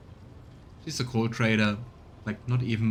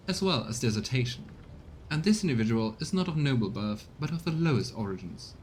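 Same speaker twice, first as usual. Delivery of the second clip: formal, scheming courtier reporting to his lord; lightly voiced courtier; a hint of a smug informant; courtier character voice. Reads game character dialogue.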